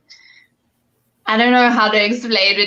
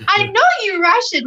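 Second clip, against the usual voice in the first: much higher mock voice of a stubborn auntie; stubborn old ayi; 10 semitones higher than usual. Old ayi arguing with her about being Russian, hammed-up high. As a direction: play the ayi refusing to back down.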